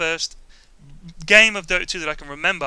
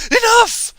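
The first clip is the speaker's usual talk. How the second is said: much higher, loud barked order; commanding shout; 11 dB louder than usual. Retold or imitated. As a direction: stop him dead with it. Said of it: "she goes".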